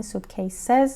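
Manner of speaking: suitcases with the added -es voiced as an extra syllable; pronunciation demo. Shown as a demonstration. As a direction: sound out the -es ending of suitcases. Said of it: "تلفظش هم مثل همین".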